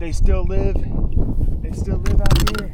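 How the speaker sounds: loud, high and thrilled; excited. Real, not acted. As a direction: shout it out with delight. Thrilled over the fish.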